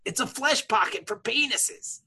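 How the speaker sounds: a sly, naughty whisper; whispered joke. Real, not acted. Joking to the cohosts about the pocket, in a whisper. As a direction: lean in and hush it like a dirty secret.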